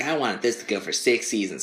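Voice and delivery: lightly put-on whiny kid; hint of a child's whine; whiny twelve-year-old. Repeating the Netflix impression for laughs, lightly whiny. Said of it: "a whiny, like, twelve-year-old".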